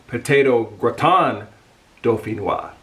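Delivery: dauphinois said doh-fee-NWAH with a nasal middle; careful French dish name; French pronunciation. Shown as a demonstration. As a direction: repeat gratin dauphinois, French style. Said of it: "I think I said it right".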